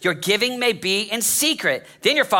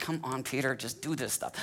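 put-on exasperated voice through gritted teeth, lower and quieter; 7 semitones lower, 14 dB quieter than usual. Imagining how a teacher urged followers to act: Jesus speaking through gritted teeth. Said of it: "teeth gritted".

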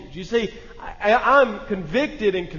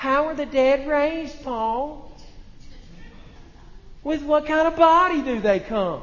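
play-acted high, whiny, needling tone; 6 semitones higher than usual. Explaining a scripture passage, voicing an imagined objector's question, mock-whiny questioning. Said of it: "I hear this whininess in their voice".

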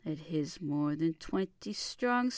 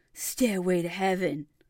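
theatrical put-on mocking sneer, much lower; 2 semitones lower, 6 dB louder than usual. Speaker retells sneering at a man about to take the stage, theatrical sneer. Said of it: "just sneered".

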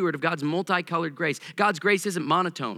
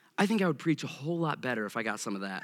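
ordinary talk

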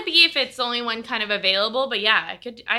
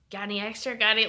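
put-on creepy guy voice, quieter; 5 dB quieter than usual. Retelling asking for extra beer at a festival: put-on creepy guy voice. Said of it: "Why did you put on a creepy guy?".

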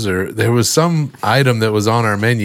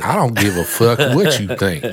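fake Southern North Carolina accent. Answering a challenge in a put-on North Carolina accent. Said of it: "That's North Carolina".

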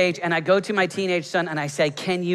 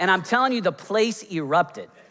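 plain

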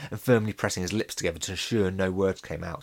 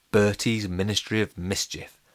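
plain reading voice

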